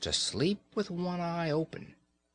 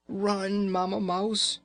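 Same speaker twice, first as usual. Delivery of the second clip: urgent cry; 9 semitones higher, slower than usual. Acted. Raggedy Ann urging Mamma Mouse to escape, urgent cry. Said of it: "Raggedy Ann cried".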